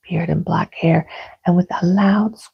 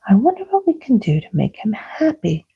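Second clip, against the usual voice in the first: Fairy Queen; 5 semitones higher, faster than usual. Acted. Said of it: "asked the Fairy Queen".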